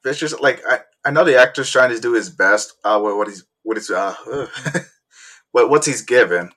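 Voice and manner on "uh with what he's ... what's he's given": stumbling over words; halting, repeated words; stuttering. Real, not acted. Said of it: "I'm just stuttering a bit".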